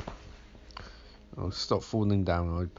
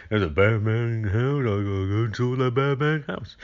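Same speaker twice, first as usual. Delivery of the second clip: mock Loomis. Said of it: "And Loomis is like".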